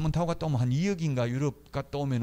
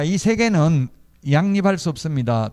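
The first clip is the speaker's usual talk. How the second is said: emphatic rule; 2 semitones higher, 7 dB louder than usual. Real, not acted. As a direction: hammer the rule home to students. Lecturer emphasizing key rule.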